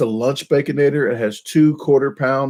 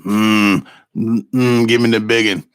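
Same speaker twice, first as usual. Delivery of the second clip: Sling Blade voice; 3 dB louder than usual. Shown as a demonstration. Vlogger demanding bacon in Sling Blade voice. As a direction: mumble it like Karl from Sling Blade. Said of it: "Sling Blade".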